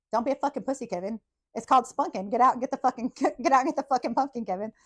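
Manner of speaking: lightly acted impatient goading; exasperated mom. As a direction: egg him on like a fed-up mother. Mom bullying Kevin into stealing.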